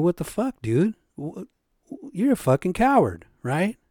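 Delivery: imitating his own furious comeback; retold anger. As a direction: throw the anger back at him. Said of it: "And I'm pissed off".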